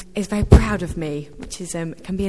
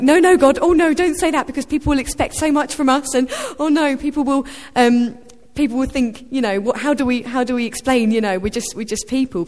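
much higher and louder, hurried alarm settling down; flustered protest; 6 semitones higher, 6 dB louder than usual. Retold or imitated. Believer protesting God's praise, alarmed and pleading. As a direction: beg God to stop the praise.

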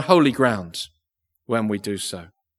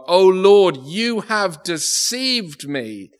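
crying out; slower than usual. Acted. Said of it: "he cries out to God".

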